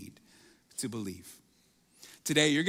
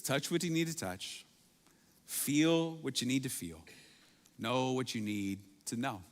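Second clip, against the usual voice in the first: softer, gentle invitation; loving and kind; 3 semitones lower, 4 dB quieter than usual. Retold or imitated. Jesus inviting doubting Thomas, soft and loving. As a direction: offer it tenderly, letting each phrase settle. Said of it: "very lovingly, very kindly".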